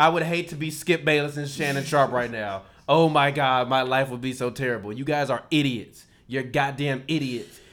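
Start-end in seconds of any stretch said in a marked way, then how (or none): 0.0-4.9 louder, overplayed fake sympathy; sarcastic mock pity. Host mocking Fox insult, loud sarcastic fake pity. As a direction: pity them with heavy sarcasm.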